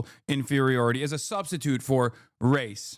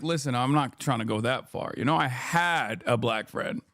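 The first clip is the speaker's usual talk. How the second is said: mock quote; 6 semitones lower than usual. Streamer mocking the guest backpedalling, low mock voice. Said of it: "he was like".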